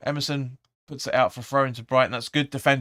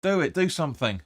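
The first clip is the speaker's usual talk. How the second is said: imitating the manager's yell; 4 semitones higher, 4 dB louder than usual. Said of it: "And he's like".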